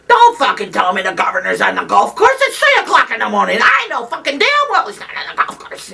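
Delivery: hammed-up, relentless bullying harangue; Bella Abzug. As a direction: impersonate a powerhouse chewing out an underling. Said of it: "trying to imitate Bella".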